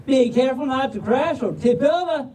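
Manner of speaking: folksy Southern storybook reading; Southern drawl. Acted. Reader opening the puppy book for the crowd, Southern drawl. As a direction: launch the title in a Southern drawl. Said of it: "but in a Southern drawl".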